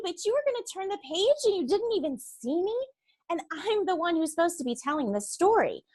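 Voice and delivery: put-on animated young girl voice, bright and chatty; lively girl narrator. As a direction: read as Stella, a bubbly kid. Voices Stella, narrator of the book.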